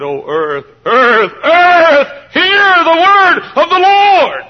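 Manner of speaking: urgent cry building to a high, drawn-out holler; Jeremiah. Acted. Prophet calling the earth to hear God, hollering urgently. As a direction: start at speaking level, then thunder it out. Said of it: "till Jeremiah said".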